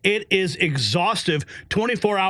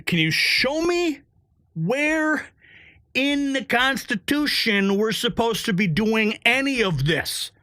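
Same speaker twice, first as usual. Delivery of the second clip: high, slow sarcastic taunt; slow teasing challenge, pitched up; mock challenge; 3 semitones higher, slower than usual. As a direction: drawl it like daring them. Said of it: "I'm like".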